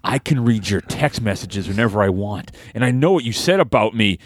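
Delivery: slow, drawn-out heel taunt; wrestling promo. Acted. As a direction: call out your rival like a wrestling heel. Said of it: "Cut a promo right now".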